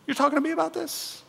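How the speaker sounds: very high, quick comic confusion; bewildered Gideon. Acted. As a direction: ask as if looking for someone behind you. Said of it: "Gideon standing there and looking around saying".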